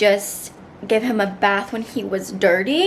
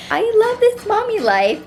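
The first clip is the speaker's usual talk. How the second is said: excited; 11 semitones higher, 4 dB louder than usual. Real, not acted. Excited high exclamation.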